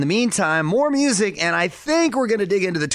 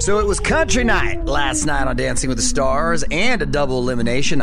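country accent; 4 dB louder than usual. Real, not acted. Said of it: "I don't know why I have a country accent right now".

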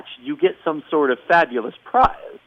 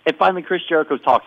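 ordinary delivery

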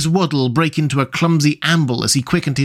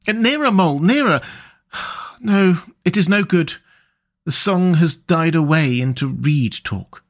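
a hint of a higher rat voice, dreamy and content; lightly voiced Rat; 4 semitones higher than usual. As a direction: Rat savouring the sun and the wind, lightly voiced. Rat speaking in story.

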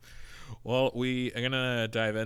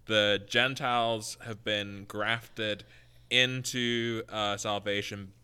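telephone voice. Shown as a demonstration. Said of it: "I'll use my telephone voice for a moment".

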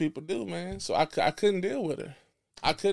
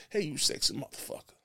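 passionate greeting; 5 dB quieter than usual. Shown as a demonstration. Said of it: "I'ma say it again".

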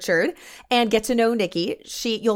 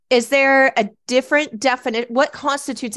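falsetto on stressed words; 5 semitones higher, 5 dB louder than usual. Real, not acted. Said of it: "My voice goes high when I get excited".

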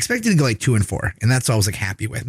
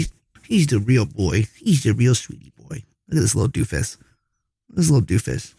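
cooing pet talk. Real, not acted. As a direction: coo over the sweet kitty. Cooing at the cat on camera.

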